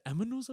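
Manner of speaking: "aminos" for animals, with an m sound; accented mispronunciation. Retold or imitated. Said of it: "saying it wrong 'cause of his accent".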